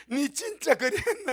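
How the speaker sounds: Gyeongsang dialect. Acted. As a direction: Gyeongsang dialect, God gently doubting. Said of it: "경상도 말투로 말씀하십니다".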